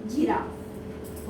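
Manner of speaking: जिराफ drawn out very slowly, soft; teacher modelling जिराफ; slow model word. Shown as a demonstration. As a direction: stretch जिराफ syllable by syllable. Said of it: "ये जिराफ".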